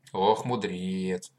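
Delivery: slow, amused, teasing tone; wry chuckle. Acted. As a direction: draw it out with a smirk. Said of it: "усмехнулась мать".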